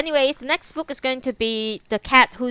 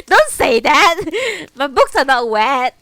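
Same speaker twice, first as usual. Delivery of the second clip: laughing protest; 4 semitones higher, 9 dB louder, slower than usual. Real, not acted. Laughing at teasing chat comments.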